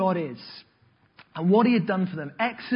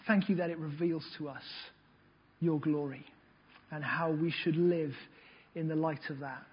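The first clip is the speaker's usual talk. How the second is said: pastoral prayer. Acted. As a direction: pray gently over the congregation. Leads the congregation in prayer.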